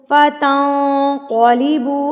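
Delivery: slow recitation with a thick, full q in फतंकलिबू; heavy Quranic qaf. Shown as a demonstration. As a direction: stretch फतंकलिबू, making its q heavy. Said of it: "मोटा करके आप पढ़ेंगे".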